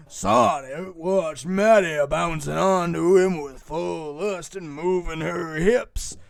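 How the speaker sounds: slow, heavy hick drawl; hammed-up Bubba narrator, slow; big Bubba voice. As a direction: read it like a big lumbering Bubba. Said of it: "my big Bubba voice".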